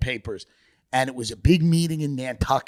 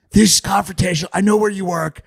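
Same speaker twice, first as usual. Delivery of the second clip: higher, louder mock mayor threatening reporters; raspy guttural mayor; 5 semitones higher, 4 dB louder than usual. Mocking the mayor snapping at the press. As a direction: growl it like a defensive mayor. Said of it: "And she'd be like".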